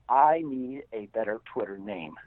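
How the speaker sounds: chuckling through the words; laughing. Real, not acted. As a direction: laugh as you say it. Laughing while quoting himself.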